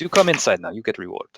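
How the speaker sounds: put-on Russian accent. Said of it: "we try accent now".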